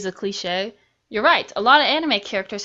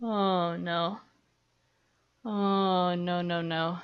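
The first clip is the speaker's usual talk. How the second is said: scared whimper; 5 semitones lower, 8 dB quieter, much slower than usual. Acted. Dreading commentary hell.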